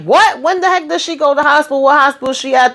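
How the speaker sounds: a retold husband's high, fast alarm as he demands answers. Husband hearing his wife went to the hospital, alarmed. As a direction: fire off the questions, startled and rushed.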